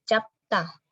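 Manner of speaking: Capta read the Korean way, the consonant cluster simplified; Korean word demo. Shown as a demonstration. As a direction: sound out Capta slowly for the class. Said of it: "yang dibaca hanya biepnya saja". (ucapkan Capta ala bahasa Korea)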